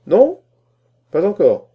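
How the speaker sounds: very high, loud incredulous question; astonished. A narrator's reading. Scholar learning applicant hasn't read poet, astonished. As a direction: exclaim in disbelief at the gap.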